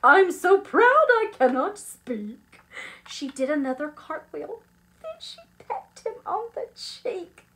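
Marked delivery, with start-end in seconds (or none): 0.0-2.6 high, loud burst of pride; elated, effusive cry; proud shouting. Acted. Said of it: "she shouted".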